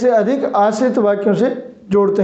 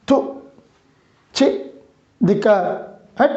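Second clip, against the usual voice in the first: disgusted. Shown as a demonstration. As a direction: recoil from something foul. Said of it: "घृणा के लिए".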